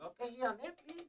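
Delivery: high, loud, laughing mock dad; hammed-up dad insisting he pay; imitating his dad. Dad imitated demanding payment.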